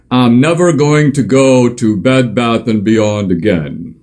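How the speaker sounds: slow, drawn-out mock pledge of a boycotter. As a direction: lightly send up a self-righteous shopper. Mocking a would-be boycotter.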